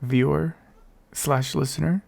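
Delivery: hoarse, fading voice; raspy, voice almost gone. Real, not acted. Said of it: "do you like my raspy voice".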